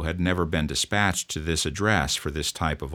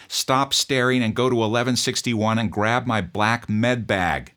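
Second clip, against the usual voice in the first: higher, louder barked order; yelled order; 6 semitones higher, 5 dB louder than usual. Retold or imitated. Officer yelling at the frozen new kid to fetch his bag, loud order. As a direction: snap at him to move. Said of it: "I yelled at him".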